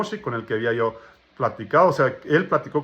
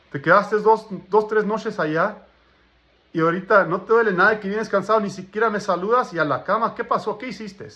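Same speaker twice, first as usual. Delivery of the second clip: lightly voiced wife, higher pitched; higher, mildly reproachful retold questioning; 6 semitones higher than usual. Wife questioning husband back from nights away, mild retold reproach. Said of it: "Ella se salió enojada".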